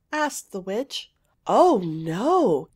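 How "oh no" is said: put-on eager, loud young girl voice; a little princess protesting. A narrator's reading. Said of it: "answered Princess Winsome".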